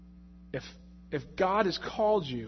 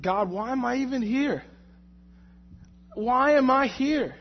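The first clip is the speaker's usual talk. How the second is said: frustrated plea; 6 semitones higher than usual. Retold or imitated. Pleading to God at work.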